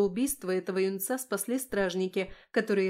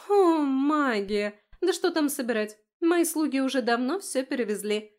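higher, louder, bubbly elf queen; breathless cheerful queen; gushing excitement; 4 semitones higher, 6 dB louder than usual. A narrator's reading. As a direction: sweep her off her feet with delight. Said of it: "ошарашила меня Вайолет".

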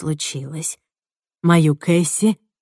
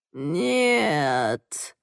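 moan; 6 dB quieter than usual. Acted. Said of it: "простонала бесформенная груда".

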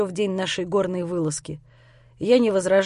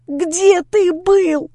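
drawn-out scream, much higher and louder; 9 semitones higher, 7 dB louder, much slower than usual. Acted. Lera screaming at Grisha where he has been. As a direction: scream the question at him slowly. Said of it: "заорала она".

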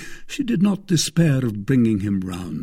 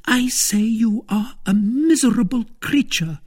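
high, louder, scathing wife; contemptuous anger; 14 semitones higher, 5 dB louder than usual. Acted. Wife reviling her husband, furious. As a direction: spit out the insult.

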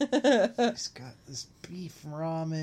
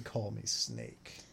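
mock villain voice; 9 semitones lower, 11 dB quieter, slower than usual. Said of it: "He's saying".

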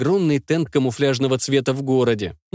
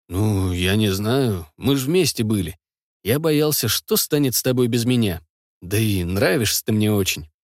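put-on drunk, slurred; 3 semitones lower than usual. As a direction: slur it like a drunk. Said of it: "уже пьяный и мой язык заплетается".

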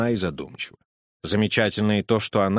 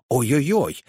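mock cry of pain; 3 semitones higher, slower than usual. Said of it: "он закричал".

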